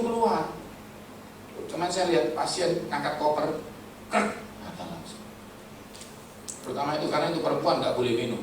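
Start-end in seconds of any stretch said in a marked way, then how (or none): 4.1-4.3 short dry "krek" of a breaking bone; imitated cracking sound. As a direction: make a sudden low cracking noise. (bunyi retak tiruan)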